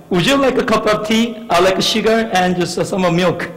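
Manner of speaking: a slow, halting try at a British accent; British accent attempt. Shown as a demonstration. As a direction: carefully sound out the British accent, very slowly. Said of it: "저보고 해보라 해서". (아주 느리게 더듬더듬 흉내 내는 영국식 억양)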